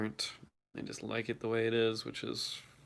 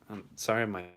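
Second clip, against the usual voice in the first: shaking voice. Real, not acted. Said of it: "my voice is shaking right now".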